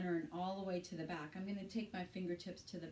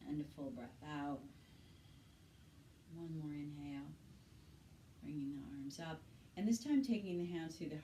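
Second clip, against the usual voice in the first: calm yoga cueing with long pauses between breaths; guided yoga instruction. Shown as a demonstration. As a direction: guide them gently through each breath. Leads breathing and movement.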